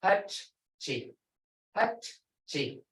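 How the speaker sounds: Hachi, said with the h breathed and falling; Muskogee word hachi. Shown as a demonstration. Teacher demonstrating hachi, tail. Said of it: "you can feel it".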